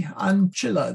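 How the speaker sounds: "ancilla" with AN stressed and a short i; stress on first syllable. Shown as a demonstration. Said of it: "there is no, no law, no, uh, macron over the I".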